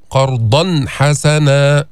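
قرضا حسنا with the tanween clearly sounded before ح; slow قرضا حسنا with a clear nun. Shown as a demonstration. Teacher models the clear nun for students. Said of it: "أتينا بالإظهار".

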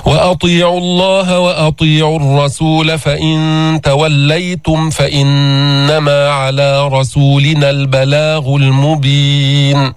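slow, measured tajweed chanting; Quran recitation. Shown as a demonstration. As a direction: recite carefully as a model for the class. Recites verse.

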